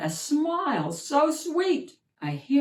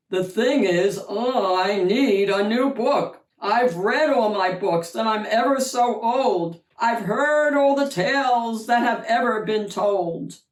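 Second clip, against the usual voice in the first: lightly voiced old giant; 3 semitones higher, 5 dB louder than usual. Old giant speaks to wolf.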